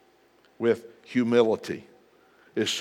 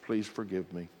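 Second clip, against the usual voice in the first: meek plea; 5 semitones lower, 9 dB quieter than usual. Retold or imitated. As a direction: lower and much softer plea. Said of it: "And then what?".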